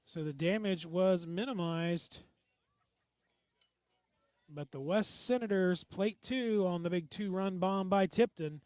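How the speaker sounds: loud, projected game recap; projected sportscast throw to a break; play-by-play announcer. Acted. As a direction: wrap up the inning for radio listeners.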